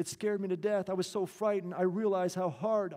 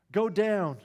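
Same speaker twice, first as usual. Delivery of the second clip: louder, higher urgent order; urgent blurt; 4 semitones higher, 5 dB louder than usual. Retold or imitated. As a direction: push him out the door. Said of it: "she blurted".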